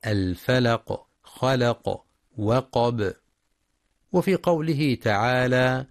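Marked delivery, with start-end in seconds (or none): 0.1-3.1 bounced endings on "الفلق، خلق، وقب"; qalqala stop. Shown as a demonstration. Teacher demonstrating pauses, echoed endings in "الفلق، خلق، وقب". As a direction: release an echo on final qaf and ba in "الفلق، خلق، وقب". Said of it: "للقلقلة عند الوقف".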